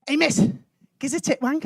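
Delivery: cheeky call at ordinary volume; distant heckler. Acted. Someone across the car park to teacher, cheeky call. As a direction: call out a cheeky request to miss. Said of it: "across the car park I heard".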